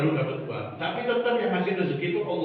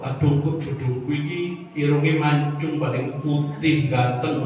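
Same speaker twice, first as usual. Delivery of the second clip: put-on child's wish; 2 semitones lower than usual. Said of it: "waktu kecil tahu".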